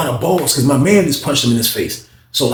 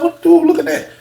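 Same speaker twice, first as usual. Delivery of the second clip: tag; 14 semitones higher than usual. Acted. Retells challenge about staring man.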